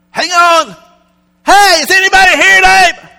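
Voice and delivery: very high, loud fake Spanish-accented holler; mock Spanish accent. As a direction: call out to the room in a put-on Spain accent. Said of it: "that's my best accent".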